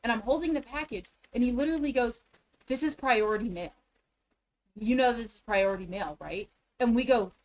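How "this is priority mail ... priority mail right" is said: lightly imitated sassy clerk; pointed, mildly condescending questioning. Post office clerk questioning a customer's package, mildly sassy. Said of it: "how sassy he was".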